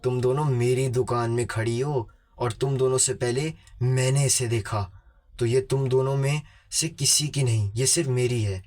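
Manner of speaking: firm, understated telling-off; a touch of stern possessiveness; mild scolding. Acted. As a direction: play an old shopkeeper rebuking two rivals. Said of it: "डांटते हुए कहा".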